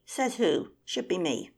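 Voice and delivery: loud challenge; indignant shout. Acted. Rival bird shouting down the first, indignant. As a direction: shout back in outrage. Birds quarrelling over leadership.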